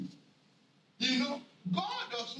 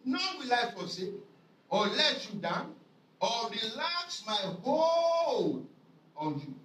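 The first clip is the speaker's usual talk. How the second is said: mild God's voice; 2 semitones higher, slower than usual. Acted. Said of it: "he said".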